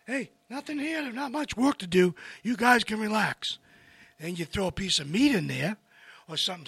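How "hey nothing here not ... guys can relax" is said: high, casual inner-voice chatter; voiced stomach. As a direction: lightly play the body talking. Stomach told to relax, voiced.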